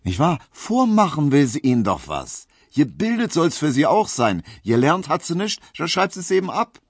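a touch of a smug know-it-all barber; lecturing. Acted. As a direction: lecture him like a worldly older colleague. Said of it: "sagte Tesch belehrend".

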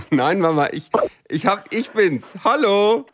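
high-pitched, through real laughter; amused, laughing. Real, not acted. Daughter owning up to mother on the phone, laughing. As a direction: let the laugh push the voice way up.

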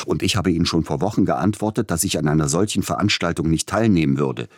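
fast, heated retort; flaring up. Acted. Tschaikowski fährt den Agenten schnell und heftig an. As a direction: snap back quickly. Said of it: "fuhr Tschaikowski auf".

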